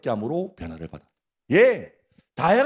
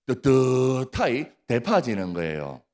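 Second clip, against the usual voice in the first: Gyeongsang dialect; 6 semitones lower than usual. Shown as a demonstration. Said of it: "경상도 말로 한번".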